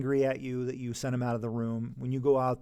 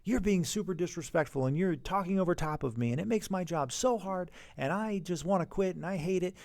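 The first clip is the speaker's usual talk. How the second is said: accusing complaint; 5 semitones higher than usual. Retold or imitated. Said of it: "If you accuse a kid".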